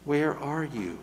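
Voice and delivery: a light, gentle call to someone lost; gently. Acted. Preacher voicing God seeking the lost, lightly gentle. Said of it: "God says to us gently".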